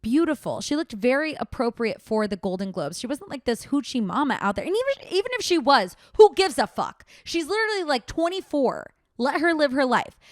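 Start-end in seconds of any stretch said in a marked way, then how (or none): 4.7-10.2 rising outrage, who gives a fuck; outraged. Real, not acted. Ranting to viewers about the boyfriend, outraged and high. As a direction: pitch jumps high and loud in disbelief.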